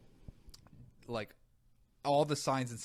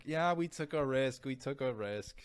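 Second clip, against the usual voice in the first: chill resident; 3 semitones higher than usual. Retold or imitated. Resident admitting to pulmonologist, slow casual shrug. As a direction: drawl it like an unbothered resident. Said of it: "The resident's like".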